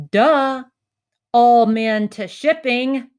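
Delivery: loud, slow, obvious duh; mock booming reply. Worker telling Chris the obvious, booming. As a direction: boom it like it's obvious.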